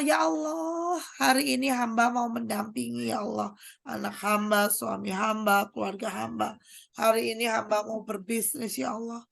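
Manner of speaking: hushed, pleading prayer to God; earnest prayer. Acted. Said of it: "kita udah bilang begini".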